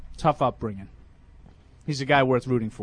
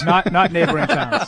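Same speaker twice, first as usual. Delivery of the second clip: laughing. Real, not acted. Joking while laughing.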